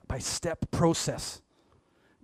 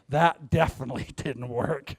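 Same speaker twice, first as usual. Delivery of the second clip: laughing. Real, not acted. Laughing retake of the failure line.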